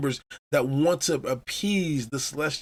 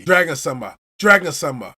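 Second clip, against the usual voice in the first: louder, urgent calling of the name; 6 dB louder than usual. Retold or imitated. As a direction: call out to get attention fast.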